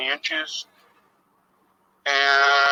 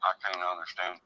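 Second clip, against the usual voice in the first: tinny voice through a cell phone; distant, crackly phone speaker sound; buzzing phone interference; 3 semitones lower, 5 dB quieter than usual. Real, not acted. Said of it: "crappy cell phone next to the mic".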